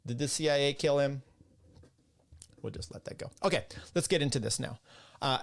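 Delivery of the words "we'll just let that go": whispered aside. Real, not acted. Whispering a sly aside to his viewers about the CIA killing JFK. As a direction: drop to a whisper, secretive and unvoiced.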